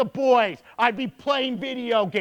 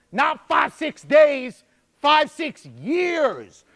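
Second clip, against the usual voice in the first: emphatic shout; 3 semitones higher, much slower than usual. Real, not acted. Correcting himself emphatically.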